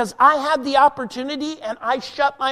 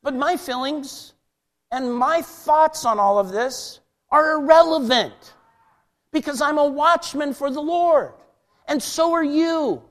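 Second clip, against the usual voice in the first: worked up; 5 semitones higher than usual. Real, not acted. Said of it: "I get worked up".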